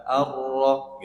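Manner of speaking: 'Ar-Ra' with heavy rolled r, vowel towards O; thickened ra. Shown as a demonstration. Teacher showing the heavy letter, thickened ra. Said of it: "Nah, di sini ditebalkan".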